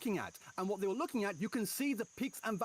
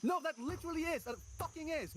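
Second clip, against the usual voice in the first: raised, exasperated denial; angry outburst; 4 semitones higher than usual. Real, not acted. Heated argument with co-host.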